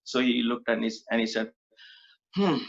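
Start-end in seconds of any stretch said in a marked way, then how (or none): 2.3-2.6 retold sigh. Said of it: "he sighed".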